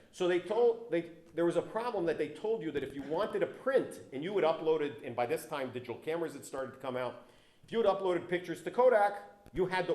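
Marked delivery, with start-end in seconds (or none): 0.1-4.9 louder, projecting to the back of the room; speaking up. Real, not acted. Back at the mic for the audience, speaking up louder. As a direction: push the voice out so everyone hears. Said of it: "hopefully you can hear me better".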